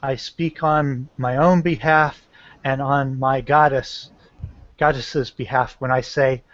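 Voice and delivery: measured, formal warning to a foe; intimidating. Acted. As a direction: deliver a restrained threat in deliberate phrases. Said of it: "I'm trying to intimidate".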